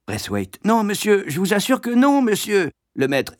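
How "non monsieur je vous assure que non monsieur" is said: put-on swollen-lip boy =135. Boy protests.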